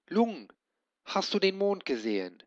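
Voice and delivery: hohe rufende Koboldstimme; Koboldmädchen ruft. A narrator's reading. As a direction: hell und drängend nach dem Drachen rufen. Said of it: "rief sie". (Schwefelfell ruft hoch zum Drachen)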